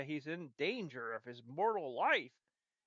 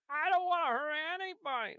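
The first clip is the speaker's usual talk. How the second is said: lovable loser voice; 10 semitones higher, 4 dB louder than usual. Retold or imitated. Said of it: "comedy relief lovable loser".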